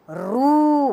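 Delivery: रू with a long drawn-out ऊ; stretched vowel. Shown as a demonstration. Teacher showing pupils the long ऊ, drawn out. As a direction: hold the ऊ in रू longer. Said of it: "खिंचाव के साथ आएगा".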